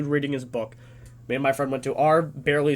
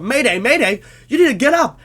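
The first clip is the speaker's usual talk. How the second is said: raised, urgent mock yell; retold screaming; 7 semitones higher, 7 dB louder than usual. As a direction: urge him up with a half-strength shout. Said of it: "Everyone's screaming".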